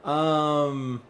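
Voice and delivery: high, loud flustered greeting; imitated freaking out. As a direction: act out a starstruck, startled hello. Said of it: "I'm still, like, freaking out".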